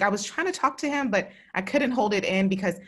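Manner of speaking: pushing words out through rising emotion; holding back tears. Real, not acted. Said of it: "I, like, kind of broke into tears".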